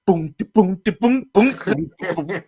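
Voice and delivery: rhythmic booms climbing in pitch; imitated trap throws. Comic acting a scared man flinging traps, mimicked booms. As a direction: punch out each throw as a boom. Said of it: "he's throwing these traps across".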